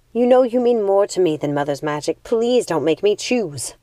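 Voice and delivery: begging her sister not to force it; pleading sigh. Acted. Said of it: "She sighed and said".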